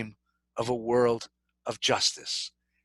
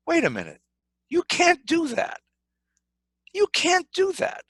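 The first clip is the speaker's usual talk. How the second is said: much higher, insistent objection; protesting; 14 semitones higher, faster than usual. Acted. Abraham objecting to the creator, insistent and high. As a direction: push back hard, like stopping someone.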